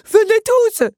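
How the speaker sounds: very high, loud bark; barked call. A narrator's reading. Henri summons his creatures to help, barking loudly. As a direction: bark for reinforcements. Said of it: "aboyait-il".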